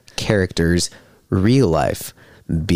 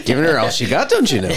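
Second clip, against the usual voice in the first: bad Canadian accent; 4 semitones higher, faster than usual. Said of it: "we're terrible Canadian accents".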